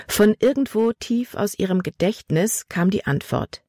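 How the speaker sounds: plain reading voice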